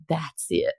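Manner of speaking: attempted American guy voice; American accent. Reader attempts hero's line on request, American accent. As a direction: try an American man's line. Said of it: "can you do it in an American voice".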